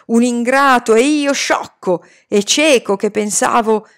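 enraged master's tirade; furious rant. Acted. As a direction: rage at the rebel boy. Furious master rages at boy.

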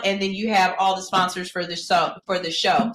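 tripping over a thick tongue; words stumbling on a swollen tongue; fat tongue. Real, not acted. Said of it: "Sorry, my tongue is fat".

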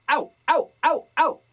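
loud sealed bright au calls; compressed au. Shown as a demonstration. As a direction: seal the glottis and punch it. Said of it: "tapar esa glotis". (au comprimido y sellado)

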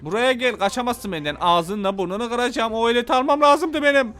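real angry shouting at a rammer; angry yelling. Real, not acted. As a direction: yell at him, you're furious. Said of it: "Çok sinirlendim ya".

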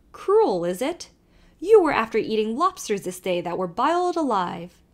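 put-on lively Irish accent, calling to the horse; old Irish driver calling out; Irish carter. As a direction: urge the nag on in a brogue. Kelly retorts.

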